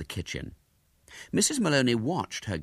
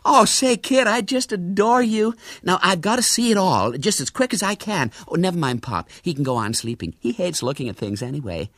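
high-pitched gushing American lady; loud, high burst of glee easing off; delighted gushing; 11 semitones higher, 4 dB louder than usual. A narrator's reading. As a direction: gush with delight, tears all forgotten. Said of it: "Gone were all traces of tears".

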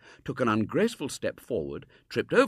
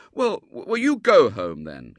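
loud, stammered encouragement; encouraging boy; 5 semitones higher, 12 dB louder than usual. A narrator's reading. Boy counselling a homesick girl, emphatic encouragement. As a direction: urge her on, stumbling at the start. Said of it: "counselled William encouragingly".

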